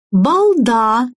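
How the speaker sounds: high, drawn-out singing-style pronouncement; beautiful soprano. A narrator's reading. Game voice scolds the player in a high soprano. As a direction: intone the insult like a soprano. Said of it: "произнесло красивое сопрано".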